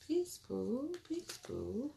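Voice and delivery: a soft little greeting, said twice; affectionate greeting. Real, not acted. Host wishes Pooh peace, soft affectionate greeting. Greets an arriving viewer by name.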